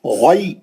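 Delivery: गै with a full, heavy gh; rounded, heavy throat sound in गै; heavy ghain. Shown as a demonstration. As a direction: say गै thickly from the upper throat. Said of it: "मोटा मुस्तालिया का है".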